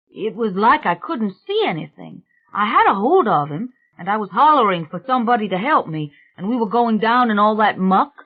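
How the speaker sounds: a touch of urgency, recounting a near drowning; rattled young workman. Acted. Young man retells the pool accident, mildly rattled.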